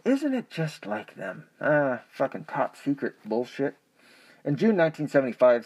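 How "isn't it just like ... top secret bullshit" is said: sarcastic. Real, not acted. Mocking aside about government.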